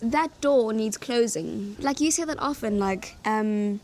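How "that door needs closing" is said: quoted British phrase. Retold or imitated. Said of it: "It was".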